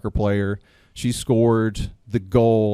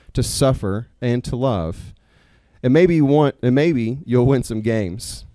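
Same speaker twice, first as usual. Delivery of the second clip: measured, earnest reading of a written tribute; prepared closing reflection. Real, not acted. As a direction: deliver it as a heartfelt speech, pausing between phrases. Reads his prepared closing piece.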